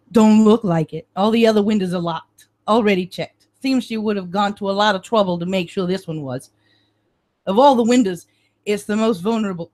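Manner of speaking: put-on gruff cop with a Brooklyn accent; lightly voiced Brooklyn detective. Detective Marino showing the examiner the way in, Brooklyn accent. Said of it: "I'm losing my Brooklyn accent".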